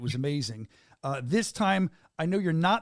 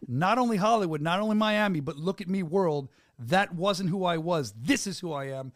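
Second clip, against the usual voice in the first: imagined proclamation. Retold or imitated. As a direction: proclaim it to the world on the fighter's behalf, then settle. Voices fighter's defiant message to world.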